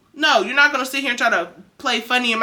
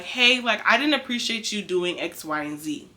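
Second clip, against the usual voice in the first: calm, soft and polite, dropping quieter at the end; gentle; 5 dB quieter than usual. Shown as a demonstration. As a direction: set a boundary gently, without any edge. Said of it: "instead of you being gentle with it".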